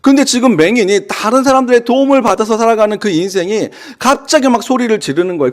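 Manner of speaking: ordinary delivery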